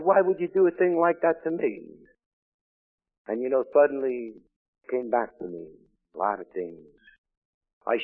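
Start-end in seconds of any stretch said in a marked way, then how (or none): 0.0-2.1 higher, louder protest to God; anguished cry. Retold or imitated. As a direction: demand an answer through grief. Crying out to God over wife's death.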